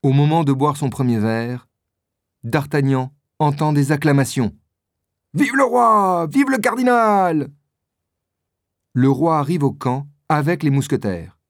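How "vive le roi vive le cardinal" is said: high, raised cheers, the second slower; cheering crowd. Acted. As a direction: call out like an acclaiming crowd. Crowd acclaiming the king.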